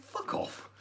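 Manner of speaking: a breathy, unvoiced fuck off; whispered retort. Homeowner to the nosy stranger, whispered. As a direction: hiss it under the breath.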